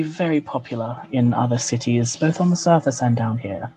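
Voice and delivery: lightly voiced sultry elf woman; a hint of a purring seductress; femme fatale. GM voices elven woman NPC.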